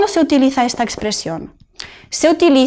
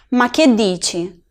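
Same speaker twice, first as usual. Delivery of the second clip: slow, disbelieving what-are-you-saying; incredulous; slower than usual. Shown as a demonstration. Teacher acting disbelief at a friend's claim, slow. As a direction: let your disbelief show. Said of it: "que expresa incredulidad".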